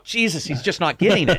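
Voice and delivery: high-pitched comic exasperation; incredulous, high-pitched frustration; exasperated. Acted. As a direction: throw up your voice at someone hopelessly dense. Acting exasperated viewer of Joey.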